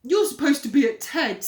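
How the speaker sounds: loud Henry voice; change the subject fast; distracting. Henry trying to distract Peter, loud. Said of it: "trying to distract him".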